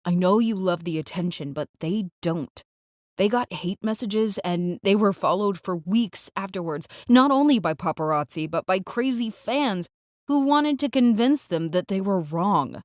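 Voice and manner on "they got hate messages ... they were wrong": rising voice. Acted. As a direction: let the voice climb with agitation. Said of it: "My voice rises".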